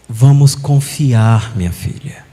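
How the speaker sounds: slow, soothing spiritual elder; calm her down slowly, word by word; gentle consoling elder. Retold or imitated. Chico Xavier slowly comforting a grieving mother.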